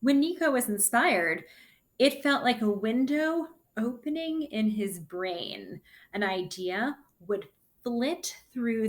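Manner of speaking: lively storybook read-aloud; reading to children. Acted. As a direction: read the story to the class with bounce. Reads the picture book aloud.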